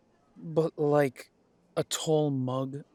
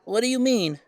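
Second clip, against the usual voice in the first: sharp high alarmed question; jolted by the threat; shocked; 9 semitones higher, 8 dB louder than usual. Acted. Son hears the threat, shocked and loud.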